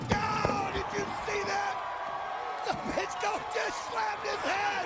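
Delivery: excited, urgent ringside call; live play-by-play. Acted. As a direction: shout it like the action is happening now. Announcers calling the brawl live.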